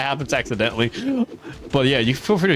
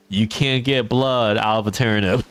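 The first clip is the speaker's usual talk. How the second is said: slow, put-on Southern drawl; fake Southern accent. Shown as a demonstration. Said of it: "be a very fake Southern person".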